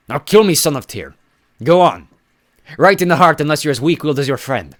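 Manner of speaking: loud, high, goading giant; taunting giant. Acted. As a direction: dare him to strike. Giant goads hero to kill.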